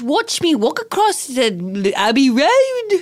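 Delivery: slow, hammed-up bad Irish; mock Irish accent. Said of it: "assessment of my Irish accent".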